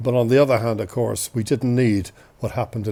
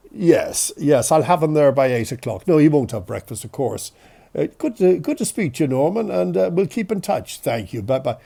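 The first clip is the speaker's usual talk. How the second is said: a hint of mum's brisk doctor-on-the-phone voice, settling at sign-off; mother's doctor voice; 3 semitones higher than usual. Doctor mother arranging surgery with a colleague, lightly voiced doctor manner. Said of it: "with her m-, doctor's voice is different".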